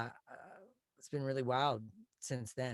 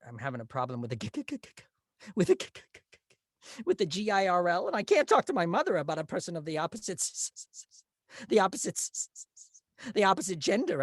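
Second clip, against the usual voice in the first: higher, louder, stammering on every k and s; stuttering nerd; 6 semitones higher, 7 dB louder than usual. Retold or imitated. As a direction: stammer like an awkward teenage nerd. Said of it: "silly things as Carol".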